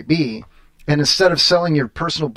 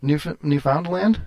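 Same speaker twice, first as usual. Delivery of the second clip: surprised question; much slower than usual. Real, not acted. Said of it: "You gotta say it like a pirate".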